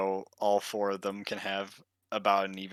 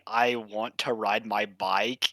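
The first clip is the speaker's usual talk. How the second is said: Irish accent; slower than usual. Shown as a demonstration. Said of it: "in an Irish accent".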